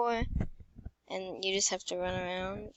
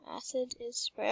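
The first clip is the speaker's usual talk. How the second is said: whispering; 5 dB quieter than usual. Real, not acted. Whispered reading in game.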